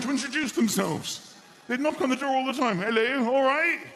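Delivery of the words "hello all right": chirpy villager. Retold or imitated. Villagers voiced knocking at door.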